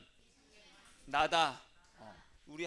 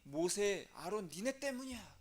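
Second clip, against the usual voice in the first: acted grumbling complaint, pitched up; mock accusing crowd, pressing the blame; resentful blaming; 5 semitones higher, 4 dB louder than usual. People blaming Moses and Aaron, acted resentment. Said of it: "막 원망을 합니다".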